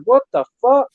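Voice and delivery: imitating his own exasperated yell; retold outrage. Retelling the promoter call, a mock exasperated yell.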